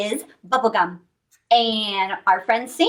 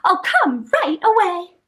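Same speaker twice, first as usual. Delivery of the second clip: eager Little Red; 5 semitones higher, slower than usual. Acted. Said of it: "said Little Red".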